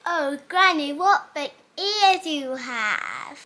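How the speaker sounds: loud, slow gasp of wonder; girl astonished by granny's ears, loud and slow; amazed. Acted.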